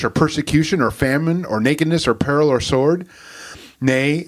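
measured, solemn Bible reading; scripture reading. Acted.

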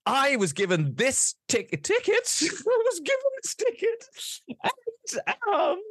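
high, pompous noble voice; a grand noble demanding the supervisor; haughty noble voice. Acted. Player character to goblin clerk, pompous high noble voice.

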